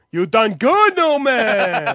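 a lightly voiced Seinfeld character; Seinfeld impression. Host does a Seinfeld impression for his co-host, lightly. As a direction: toss off a quick sitcom impression. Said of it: "I do an impression from Seinfeld".

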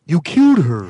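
low, dull ogre voice; dopey cartoon bellow. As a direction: play the dim Oz ogre. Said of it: "he goes like this".

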